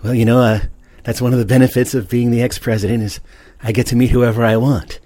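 put-on folksy old president; Ronald Reagan voice. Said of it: "talking like that in a dream".

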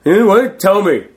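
half-laughing frustration; desperate demand. Retold or imitated. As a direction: beg for the secret. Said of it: "I'm like".

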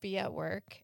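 ordinary talk, nothing marked

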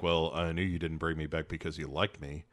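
low, soft brooding hero; low Superman voice. Acted. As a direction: grumble it like a sulky hero.

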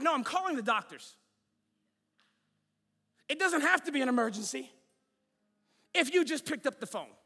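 high, loud comic complaint; hammed-up frustrated caller; exasperated protest. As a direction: argue back at the recording, worked up. Acted frustration at phone message.

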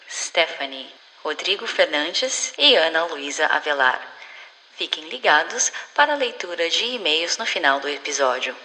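flight attendant. Acted. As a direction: read it like an onboard intercom call. Onboard announcement parody to listeners.

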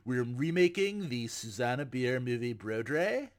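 laid-back surfer drawl, Brodre as "bro-dray"; California surfer accent. Shown as a demonstration. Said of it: "say it like a California surfer".

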